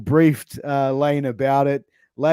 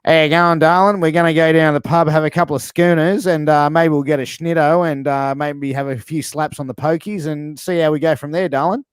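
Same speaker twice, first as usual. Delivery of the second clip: Aussie bogan chatting up his darling at the pub; 3 semitones higher than usual. Acted. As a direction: play the Aussie bogan inviting you to the pub. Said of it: "a bogan would probably sound like this".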